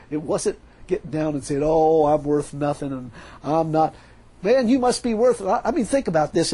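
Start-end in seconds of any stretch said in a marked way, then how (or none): 1.6-3.9 slow, whiny mock humility; mock self-pity. Preacher mocking religious self-abasement, slow whiny parody. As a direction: parody a grovelling believer.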